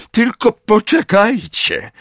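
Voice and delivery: very high, slow, hateful gasping; panted threat. A narrator's reading. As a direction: struggle the threat out through panting. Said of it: "wydyszał, patrząc na Jamesa z nienawiścią".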